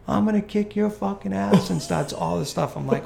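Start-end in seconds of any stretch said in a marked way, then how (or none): 0.1-1.7 higher-pitched mock threat; retold angry snap. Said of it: "The kid snaps at me".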